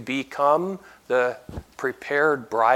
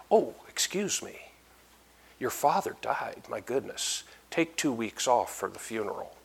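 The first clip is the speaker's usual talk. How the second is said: soft, sympathetic apology; mock sympathy; 5 semitones lower, 8 dB quieter than usual. Imagined Lord consoling a man whose father died, softly sympathetic. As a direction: lower your voice in imagined condolence. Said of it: "would sympathize".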